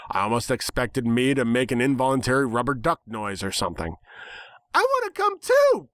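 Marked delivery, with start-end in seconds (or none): 4.7-5.9 very high, chirpy and eager; happy declaration. A narrator's reading. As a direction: bounce with glee. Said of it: "Pinkie declared happily".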